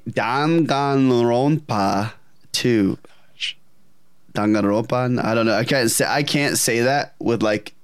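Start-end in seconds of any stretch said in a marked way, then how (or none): 0.1-3.0 slow, careful Spanish-accented attempt. Real, not acted. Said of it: "have to say it with a Spanish accent". 4.3-5.2 unsure Spanish-accented attempt. Real, not acted. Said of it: "have to say it with a Spanish accent".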